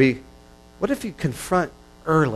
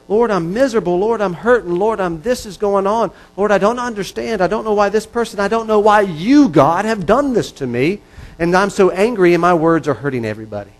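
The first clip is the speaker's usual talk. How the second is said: raw anguished prayer; 5 semitones higher, 3 dB louder than usual. Pretend.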